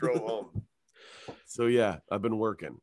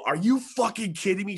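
incredulous; 11 semitones higher, 4 dB louder than usual. Retold or imitated. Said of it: "I go".

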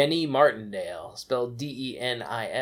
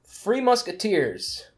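ad announcer; 5 semitones higher, 3 dB louder than usual. Acted. Mock candy ad tagline.

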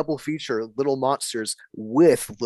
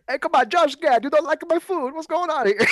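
much higher, comic restaurant-owner voice; Giuseppe; 13 semitones higher than usual. Retold or imitated. Restaurant owner complaining to a customer about his food, high hammed-up protest. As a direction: put on a high, protesting mock shout. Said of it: "fucking Giuseppe, he's like".

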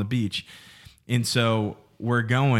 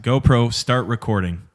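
"GoPro" called out louder to the camera; louder repeat of the GoPro command; 5 dB louder than usual. Real, not acted. Retrying a voice command on the camera, louder. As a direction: say it again louder so the camera hears. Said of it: "That one stopped".

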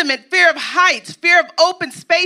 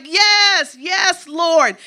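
higher, eager yes to the Lord; 4 semitones higher, much slower than usual. Retold or imitated. Preacher voicing a believer accepting the call, eager and higher. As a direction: jump at the call. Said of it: "And you're like".

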